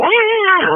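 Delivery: high quick mock yell of "Ah"; mock scream. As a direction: let out a short imitated holler. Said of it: "been yelling and hollering and screaming".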